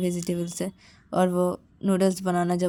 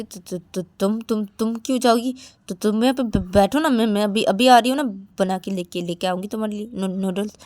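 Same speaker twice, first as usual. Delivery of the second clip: nervous stammer; 3 semitones higher, 4 dB louder than usual. Acted.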